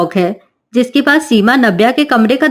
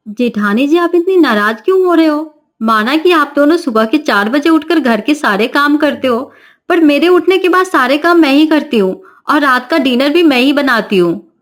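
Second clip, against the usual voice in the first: put-on defiant young bride; 3 semitones higher than usual. Navya argues with sisters-in-law.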